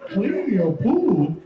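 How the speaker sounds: slowly dragged command; mock slow order. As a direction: drawl it out like a boss.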